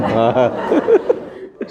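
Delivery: a real burst of laughter. Real, not acted. Preacher laughing at his own quip about men's heart disease.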